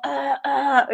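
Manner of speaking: mock dying groans; quejido de moribundo imitado. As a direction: act out two feeble gasps of a stabbed man. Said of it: "Porque además luego es como". (quejidos fingidos de apuñalado)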